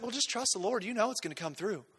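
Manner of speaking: mock an overly religious friend lightly; creepy pious. Overly religious friend to someone struggling, lightly creepy. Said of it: "in a creepy way".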